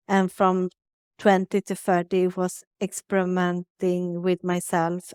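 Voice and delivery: usual speaking voice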